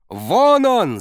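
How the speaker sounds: sudden loud yell, high pitch; shouting coach. A narrator's reading. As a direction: bark it out, spotting him. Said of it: "заорал тренер".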